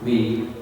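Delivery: "wi" with an i vowel, the misreading; wrong reading. Shown as a demonstration. Teacher warns class against misreading, "wi" with i. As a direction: say "wi" as the reading to avoid. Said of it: "Jangan dibaca".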